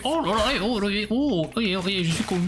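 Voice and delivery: high put-on dopey crab voice; mock dumb crab. Streamer mocking the silly-looking crab, high dopey voice. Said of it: "il fait".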